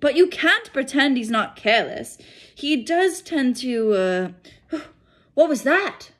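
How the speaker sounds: a hint of a startled stern woman; startled McGonagall. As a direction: break off alarmed.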